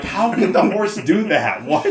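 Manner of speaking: cracking up in disbelief; squeaky laughing incredulity. Retold or imitated.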